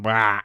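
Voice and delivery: recreating the noise he let slip; imitated startled wah. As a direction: blurt out a surprised wah as if caught off guard. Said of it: "I sort of went".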